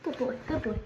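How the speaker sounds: soft hushed reassurance; calm him gently, softly. Real, not acted. Calming frightened wet bird.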